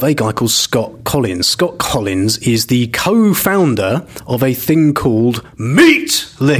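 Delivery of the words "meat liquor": shouted brand name; loud sharp voice. Shown as a demonstration. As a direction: bark the name out. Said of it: "Why are you shouting?".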